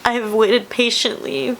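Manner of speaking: really choking up with feeling; tearful, emotional. Real, not acted. Telling viewers how much family and this news mean, tearfully emotional. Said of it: "sorry, I'm getting emotional".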